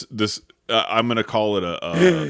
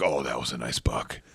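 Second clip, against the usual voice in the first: low, softer, offhand; a hint of a laid-back James; casual hunting buddy; 7 semitones lower, 6 dB quieter than usual. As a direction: shrug it off like it's nothing. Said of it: "He's like".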